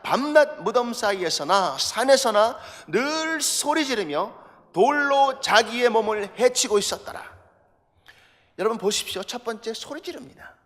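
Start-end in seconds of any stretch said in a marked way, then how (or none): 0.0-7.2 slow, loud, measured reading of the verse; scripture reading aloud. Shown as a demonstration. Pastor leading the congregation in reading Mark, slow and loud. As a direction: read it out slowly and firmly with the congregation. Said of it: "같이 읽겠습니다. 시작".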